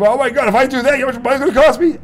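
high, fast whiny complainer; a whiny cheapskate, mocked; mock whiner. Mocking complainers about water cost.

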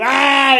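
high mock demon scream; short high-pitched imitation shriek; imitated demon cry. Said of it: "A demon starts crying out".

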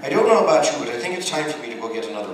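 a hint of a stage Irish accent, lightly voiced; attempted Irish accent. Fan asks for an Irish accent, he tries a light Irish lilt. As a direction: give it a game, half-hearted go at Irish. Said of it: "Well, I'll give it a try".

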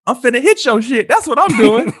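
high, loud mock-kid yell; imitating a brash child's shout; kid yelling back. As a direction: holler it back defiantly as a little kid. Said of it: "he yells out".

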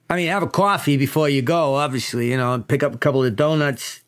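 easygoing New York boss, lightly voiced; mild precinct chief; police chief. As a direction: send the detectives off casually.

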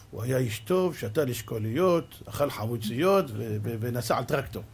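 mock eulogy. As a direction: make fun of a kibbutz eulogy. Mocking kibbutz eulogy.

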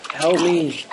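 high loud cry for help; swarmed player crying for help; panicked plea. Real, not acted. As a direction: beg for rescue in panic. Panic call.

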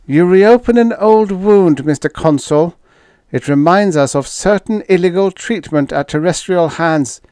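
high, loud indignant alien official; Fifth. A narrator's reading. Fifth rebuking the consul over an old wound, indignant. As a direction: protest in a high-pitched, put-on alien voice. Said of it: "Fifth puffed out his throat indignantly".

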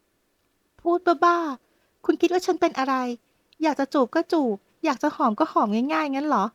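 high, slow indignant protest; an outraged fiancée snapping back; angry and embarrassed. Acted. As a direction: scold him, offended and flustered. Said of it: "ทั้งโกรธทั้งอาย".

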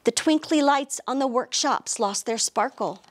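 lively storybook narration; animated picture-book reading; reading to children. A narrator's reading. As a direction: read it like storytime for little kids.

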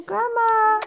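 put-on high, cooing baby voice. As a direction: speak for the baby, high-pitched.

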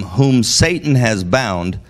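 "Satan" leaned on, slow; stress on Satan. Acted. Jesus pressing the point, stressing "Satan". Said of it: "Jesus then emphasizes it".

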